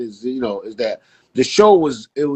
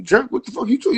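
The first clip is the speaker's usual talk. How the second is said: higher pitched, disbelieving retort; incredulous; 10 semitones higher than usual. Retold or imitated. Barber retelling his reply to fans, higher and incredulous. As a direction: toss it back, baffled and offended.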